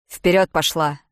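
loud, gruff barked command; barked order. Acted. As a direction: bark it at her back. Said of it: "рявкнул Лиам". (Лиам рявкает приказ, громко)

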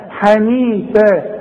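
حنيفا slow with a clear throaty ح; clear haa. Shown as a demonstration. Teacher showing the correct haa sound. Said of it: "شوف حاء".

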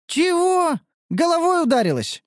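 surprised. A narrator's reading. Shocked reaction to odd claim.

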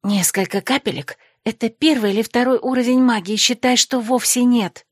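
lightly voiced chattering friends; gossiping girls. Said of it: "зашептались подруги".

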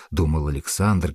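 usual speaking voice

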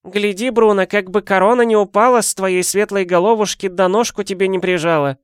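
put-on high, creaky-free old granny voice; old woman voice. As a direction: play the nosy old neighbour. Old woman lectures husband.

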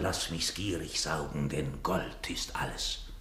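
hushed, slow, greedy whisper. Acted. Miser whispering to his gold. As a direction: breathe it like a secret.

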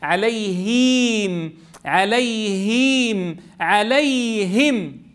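عليهم with the ya cut short. Shown as a demonstration. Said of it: "قصر لها الياء".

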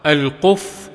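القف with "u" on the qaf and a doubled fa; damma, doubled fa. Shown as a demonstration. Reader glossing a hadith word, القف voiced "al-quff". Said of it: "بضم القاف وتشديد الفاء".

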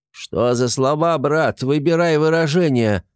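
high, offended squeaky voice; indignant gremlin. Acted. Gremlin snapping back at Artyom, high indignant voice. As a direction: bristle at the insult, up high.

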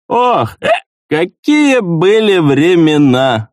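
put-on slow nostalgic cry of an old gnome; nostalgic exclamation. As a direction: sigh into the glory days. Old soldier recalling old times.

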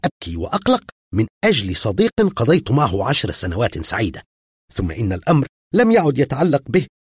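put-on angry girl defending her cat. A narrator's reading. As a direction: lash out, hurt and furious. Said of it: "قالت في غضب".

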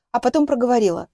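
ordinary delivery

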